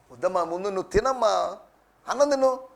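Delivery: lightly acted parent coaxing a child; a hint of sing-song parental pleading. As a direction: cajole a little one with promises. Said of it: "అని ఏదో బుజ్జగించి".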